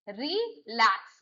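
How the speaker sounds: रिलैक्स slowly split, weight on लैक्स; stress on second syllable. Shown as a demonstration. Teacher showing verb stress, slow रिलैक्स stressed on लैक्स. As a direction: draw out रिलैक्स and land on लैक्स. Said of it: "लैक्स पे आ रहा है".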